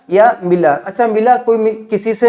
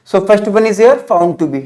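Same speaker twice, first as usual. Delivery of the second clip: slow pronunciation demo; much slower than usual. Shown as a demonstration. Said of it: "इसको सही से उच्चारण आपको कैसे करना है".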